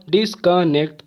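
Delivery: डिस्कनेक्ट split into three beats; syllable by syllable. Shown as a demonstration. Teacher counting three syllables, डिस्कनेक्ट broken up. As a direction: break डिस्कनेक्ट apart at each syllable. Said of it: "तीन syllable".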